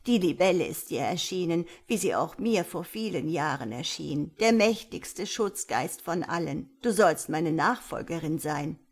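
lightly voiced elder, calmly explaining; a hint of a kindly old woman; old village elder. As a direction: explain patiently as the old teacher.

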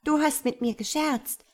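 swallow calls out. A narrator's reading. Swallow cries out to the reed that turned her down. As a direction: call out, stung and reproachful. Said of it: "rief die Schwalbe".

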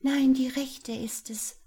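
high, loud contradiction; eager high-pitched call; interjecting cry. A narrator's reading. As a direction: cut in over the others. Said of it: "rief ein dritter dazwischen".

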